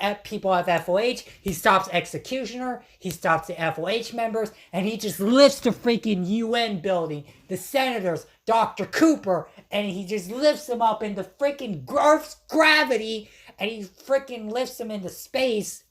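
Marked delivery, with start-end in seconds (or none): 4.7-15.8 worked-up, pitched-up retelling; real excitement, straining upward as it builds; excited yelling. Real, not acted. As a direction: get carried away with excitement. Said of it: "Sorry if I'm yelling. I'm just so freaking excited".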